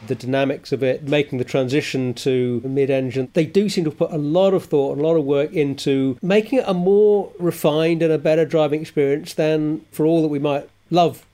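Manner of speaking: hoarse, croaky throat. Real, not acted. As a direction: speak with a frog in the throat. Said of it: "the croaky voice of Sarah".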